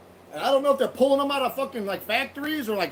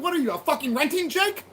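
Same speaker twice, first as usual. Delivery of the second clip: raised, threatening snarl at a wannabe cop; mock yell to scare him off; sneering threat, voice up high; 5 semitones higher than usual. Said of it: "I was like".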